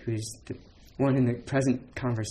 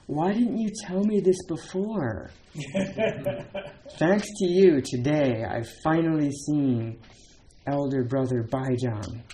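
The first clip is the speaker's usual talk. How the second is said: delighted exclaim; 3 semitones higher than usual. Retold or imitated. Voicing delighted Yao Shan.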